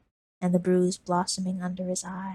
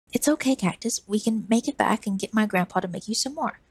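put-on higher boy voice, eager comfort; hopeful boy; 3 semitones higher than usual. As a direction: keep her spirits up like a kid. Lizard reassuring.

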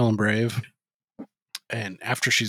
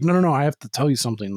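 hurried urgent interjection; much faster than usual. Retold or imitated. Retold urgent confession.

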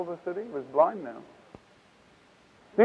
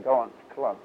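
usual speaking voice

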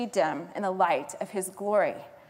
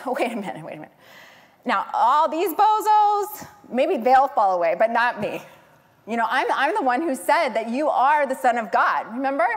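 loud, high mock indignation as Peter; flabbergasted; 3 semitones higher, 6 dB louder than usual. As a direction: act out a flabbergasted protest, stretching and raising the boast. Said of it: "Peter's flabbergasted and says".

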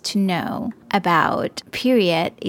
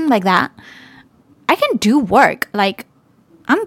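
teary laugh-cry; 7 semitones higher than usual. Real, not acted. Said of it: "a bit emotional here".

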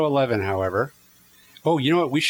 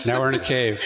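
cave echo; 2 semitones higher than usual. Shown as a demonstration. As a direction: voice bouncing off cave walls. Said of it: "There's an echo".

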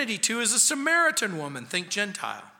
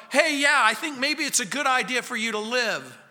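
grudging approval; 5 semitones higher than usual. Retold or imitated.

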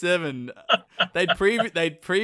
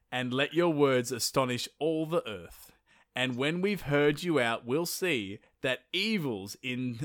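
reciting the speech. Acted.

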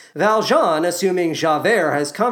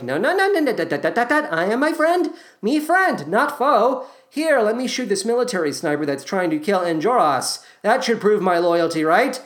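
bumbling Valjean; 4 semitones higher than usual. Acted. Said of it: "Valjean is like".

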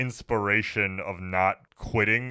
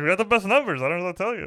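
mock boss voice; 11 semitones higher, 3 dB louder, faster than usual. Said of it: "He's like".

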